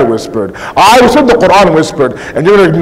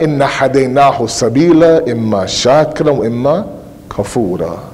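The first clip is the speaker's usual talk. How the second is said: lower, measured recital of scripture; solemn verse quotation; Quran recitation; 5 semitones lower, 4 dB quieter than usual. Acted. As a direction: recite the verse, letting the last word sink softly.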